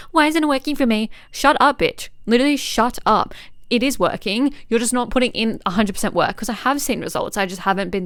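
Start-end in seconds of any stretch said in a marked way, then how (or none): 0.1-1.1 mock whine. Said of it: "don't sit here and say". 1.3-3.3 self-scolding. Real, not acted. Scolding herself for complaining.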